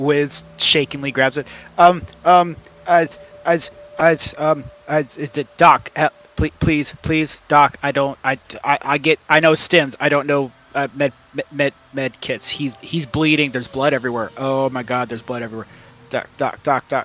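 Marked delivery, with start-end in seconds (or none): 1.8-17.1 stammering, panicked character voice. Playing Wiz, who grabs a med kit while someone bleeds: a stuttering mess. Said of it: "he's just gonna be a little stuttering mess".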